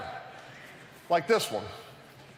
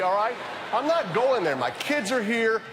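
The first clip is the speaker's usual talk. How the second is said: raised pitch, feigned prim protest; hammed-up disapproval; mock indignant refusal; 4 semitones higher than usual. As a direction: object as if you never told the joke. Feigned refusal after crude joke.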